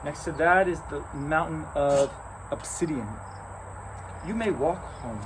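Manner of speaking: playful giant cat, high at times. Acted. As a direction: toy with them like a great cat.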